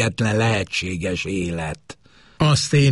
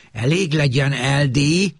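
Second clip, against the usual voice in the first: sharp, raised snap; snapping; 7 semitones higher than usual. Acted. Wife snaps at her husband to stop, sharply. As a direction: cut him off hard. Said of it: "csattant fel Maxine".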